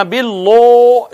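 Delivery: باللہ with rounded lips and heavy lam; wrong heavy billah. Shown as a demonstration. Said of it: "اس کو یوں نہیں کہنا". (باللہ موٹا، غلط)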